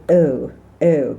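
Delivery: "oh, oh" forward in the mouth near the lips; British oh. Shown as a demonstration. Coach showing the British oh. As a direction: round "oh" toward the lips. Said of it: "more in the mouth and towards the lips".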